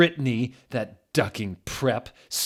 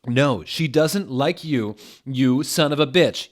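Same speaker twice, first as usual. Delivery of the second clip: yell; 5 semitones higher, 7 dB louder than usual. Acted. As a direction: spit the insult at him. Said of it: "yelled Draco".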